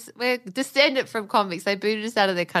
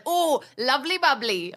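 higher mock British catchphrase; Jamie Oliver impression; 4 semitones higher than usual. Wife mimics chef's catchphrase, mock British voice. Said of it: "or whatever he says".

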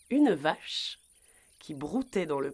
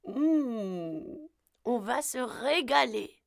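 lightly voiced, higher anticipation; greedy grandmother thinking; 6 semitones higher, slower than usual. A narrator's reading. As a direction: savour it with a long mmh. Grand-mère savours the coming snack.

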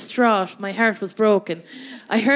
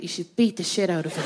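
low conspiratorial advice; 6 semitones lower, 6 dB quieter, faster than usual. Retold or imitated. Whispered advice to Sligo girls.

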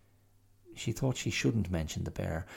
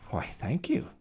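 proud; 7 semitones higher than usual. Acted. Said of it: "said the little bear proudly".

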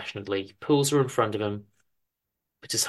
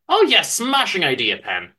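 hesitant, a touch higher and louder; flustered husband, a little hurt; lightly voiced Chester; 6 semitones higher, 5 dB louder than usual. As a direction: stammer your defence mildly. Chester cheers up.

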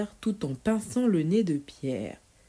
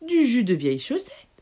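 put-on mischievous boy; 5 semitones higher, 5 dB louder than usual. Pierre teasing the witch.

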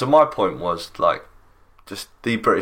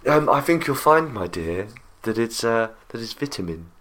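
posh English. Pretend. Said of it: "very posh accent".

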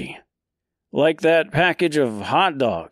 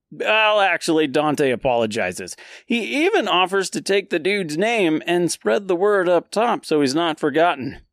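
normal talking voice

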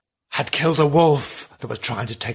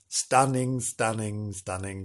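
from soft to much softer; fading sigh; 4 semitones lower, 7 dB quieter than usual. Acted. Host sighing over the stunning scenery, fading. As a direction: let each repeat die away.

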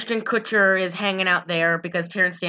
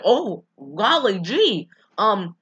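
spineless Ashton Kutcher; 3 semitones higher than usual. Retold or imitated. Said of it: "has no backbone ever".

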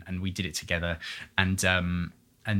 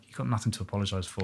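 reassuring; 6 dB quieter, faster than usual. Retold or imitated. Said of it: "she was just like".

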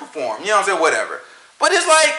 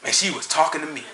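mock awed churchgoer; 6 semitones lower, 7 dB quieter than usual. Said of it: "They'll have".

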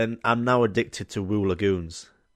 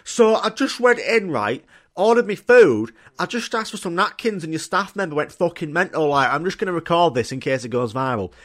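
impression of the customer; 4 semitones higher, 3 dB louder than usual. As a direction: explain yourself to the phone camera, indignant. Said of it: "let me do an impression".

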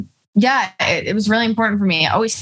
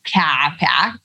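slow, drawn-out Boston accent; Boston-sounding accent attempt; much slower than usual. Shown as a demonstration. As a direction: stretch it out in a faux Boston accent. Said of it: "that was Boston".

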